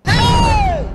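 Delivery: very high, loud, held shriek; outraged scream. Acted. Madam reacts to the house help's refusal, outraged scream. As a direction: scream it out on one long note.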